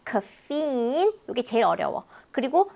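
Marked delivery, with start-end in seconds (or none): 0.0-1.1 "카페인" drawn out as KA-feen, softer; slow caffeine. Shown as a demonstration. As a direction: stretch "카페인" slowly. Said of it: "카페인 아니고 카페인".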